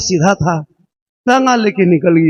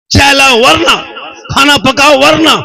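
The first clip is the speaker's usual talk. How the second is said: a touch higher, mimicking the husband's threats; mock bossy orders; 7 semitones higher, 4 dB louder than usual. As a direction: parrot his orders back with mild scorn. Wife mocks husband's orders. (पति की धमकी की हल्की नकल)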